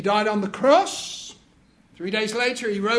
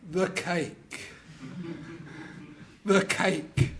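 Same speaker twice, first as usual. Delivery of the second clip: 1 dawning dismay; 5 semitones lower, 7 dB quieter, slower than usual. Acted. Husband realising the cake.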